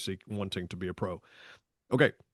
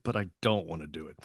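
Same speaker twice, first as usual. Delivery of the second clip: dont dropped much lower and softer; reluctant; 6 semitones lower, 5 dB quieter than usual. Retold or imitated. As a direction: sink into the reluctant side. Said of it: "secret thrill".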